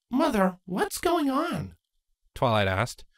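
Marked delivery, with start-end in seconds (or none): 0.1-1.8 put-on young mare lifted high and light; Twilight's voice. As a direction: voice Twilight, gently doubtful.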